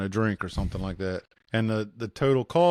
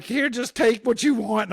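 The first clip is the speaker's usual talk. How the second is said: a stoned guy holding out his hands, scared and higher; terrified giving in; 10 semitones higher than usual. Retold or imitated. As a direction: hand it all over in fear. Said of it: "I'm like".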